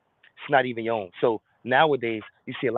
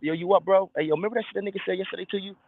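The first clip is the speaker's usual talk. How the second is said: lightly voiced tempting demon; 6 semitones higher, faster than usual. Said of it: "So you wake up".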